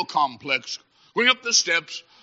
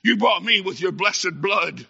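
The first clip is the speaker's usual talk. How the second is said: acted despair, swelling to a wailed last word; anguished confession; 2 semitones higher, slower than usual. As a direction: confess to God, breaking into a drawn-out cry. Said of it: "Charlie will say in that day".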